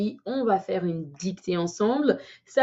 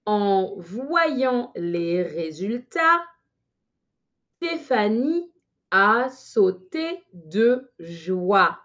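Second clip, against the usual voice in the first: slightly faster dictation; much slower than usual. Shown as a demonstration. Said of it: "un peu plus rapidement".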